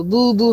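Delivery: "বু বু" as a doubled syllable; bisyllabic babble demo. Shown as a demonstration. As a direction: sound out "বু বু" slowly as two syllables. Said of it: "হলো বাইসিলেবল". ("বু বু" ধীরে দুই সিলেবলে)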